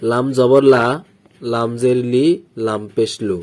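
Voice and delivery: letter, vowel name, then the syllable: "লাম জবর লা"; spelling drill. Shown as a demonstration. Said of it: "এখানে দেখুন".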